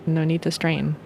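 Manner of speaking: ordinary talk, nothing marked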